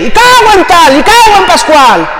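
high, loud mock swearing; imitating people who curse at God; imitated cursing. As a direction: blurt out the curses like an angry man. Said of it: "grita y maldice".

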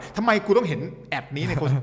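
mock ranting. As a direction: play the annoyed reader grumbling at the ad. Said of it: "แล้วโวยวาย".

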